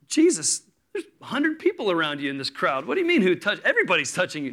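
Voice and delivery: lightly acted exasperated disciple, pitch jumping up; incredulous protest. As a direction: push back, baffled by the question. Disciples' incredulous reply to Jesus.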